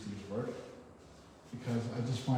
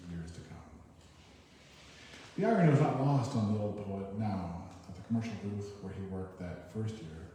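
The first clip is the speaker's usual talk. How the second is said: story narration. Acted. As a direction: narrate the poet's last scene to listeners. Reads the book's closing prose.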